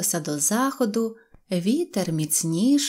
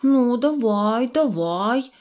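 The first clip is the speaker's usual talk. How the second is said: raised, stretched-out dare; cocky challenge; 4 semitones higher, 4 dB louder, much slower than usual. Acted. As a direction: egg him on like a fighting rooster. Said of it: "як півень наскакував на нього". (задерикуватий виклик)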